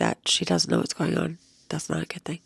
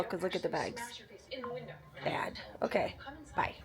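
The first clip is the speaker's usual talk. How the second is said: tired whisper; 5 semitones higher, 13 dB quieter, faster than usual. Real, not acted. Tired vlogger showing eye bags.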